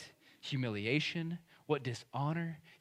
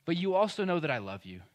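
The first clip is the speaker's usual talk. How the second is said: mildly raised, earnest confession; Peter; 3 semitones higher, 5 dB louder than usual. Acted. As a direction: admit the failure, then insist on the love. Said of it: "we can translate this into Peter confessing".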